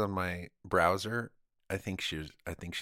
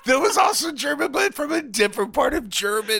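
high, loud, still cracking up; real laughter in the voice; laughing; 10 dB louder than usual. Real, not acted. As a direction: talk through the giggles.

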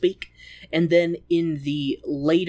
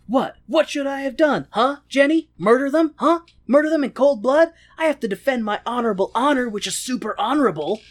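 higher, louder, rapid-fire incredulous questions; mock-indignant defensiveness; 8 semitones higher, 4 dB louder than usual. Lancelot defending his honor to Jenny, hammed-up indignation. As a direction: protest like an offended hero in a lovers' quarrel.

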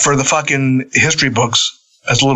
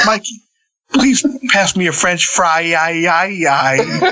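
a lightly done rock-singer voice, higher and slower; talking like a rock singer; 4 semitones higher, slower than usual. Retold or imitated. The speaker joking to Mikey in the car, mild rock-singer voice. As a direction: ham up a rock-singer whine on the aye. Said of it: "we could just talk like a rock singer".

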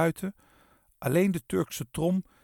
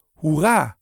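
triumphant cheer; 8 dB louder than usual. A narrator's reading. Cheer as Kees gets over.

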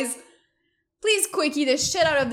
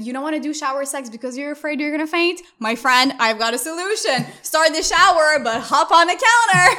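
put-on southern accent; 3 semitones higher, 6 dB louder than usual. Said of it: "I'm doing a southern accent right now".

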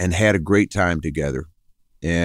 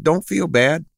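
quoting Donna; 7 semitones higher than usual. Retold or imitated. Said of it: "She said".

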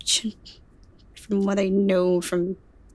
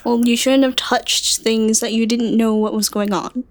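exasperated scolding; 4 dB louder than usual. Acted. Character scolding moth boy.

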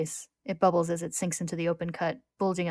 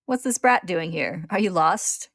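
lightly voiced villain; 7 dB louder, slower than usual. A narrator's reading. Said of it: "Greed says".

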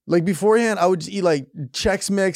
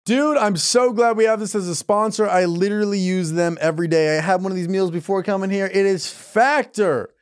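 sponsor ad read. Real, not acted. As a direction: pitch the sponsor from the copy. Reads sponsor ad.

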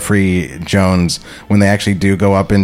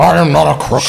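jowly Nixon impression, a bit higher; Richard Nixon; 6 semitones higher than usual. Player mocks the other's Nixon-like voice. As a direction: quote Nixon's famous denial. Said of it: "Richard Nixon?".

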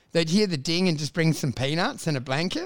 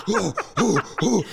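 short hooting panic breaths; hammed-up hyperventilating into a sick bag; mock panicked puffing. Passenger puffs into sick bag at takeoff, mock panic. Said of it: "panicking and going like this".

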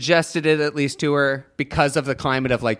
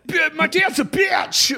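put-on whiny emo teen; 14 semitones higher than usual. Mocking American student.

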